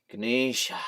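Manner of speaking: "Ganesha" as guh-NEE-shah; three-syllable Ganesha. Shown as a demonstration. Trying out the name, "Ganesha" as guh-NEE-shah. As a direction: end "Ganesha" on an open AH. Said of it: "adding extra syllables for me to say".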